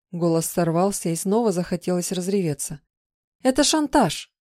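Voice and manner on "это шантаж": higher, outraged protest; wife protesting her husband's blackmail, outraged; indignant cry. Acted. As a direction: throw the accusation at him.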